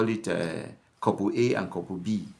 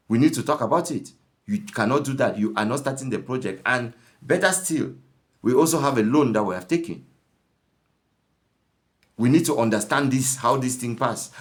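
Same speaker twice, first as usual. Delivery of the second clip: raised, insistent complaining voice, louder; nagging wife; 3 semitones higher, 4 dB louder than usual. Retold or imitated. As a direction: scold the husband, voice climbing. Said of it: "That's why my tone also goes up".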